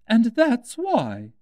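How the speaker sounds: slow, high, lofty duchess voice; haughty Duchess. A narrator's reading. The Duchess loftily tells Alice about the cat, slow and high. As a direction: drawl it out like a superior duchess.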